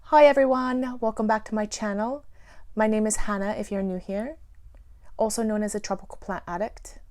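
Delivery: lightly imitated British YouTuber accent; Hannah. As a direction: channel intro in a tentative British accent. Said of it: "do Hannah's little impression of her accent".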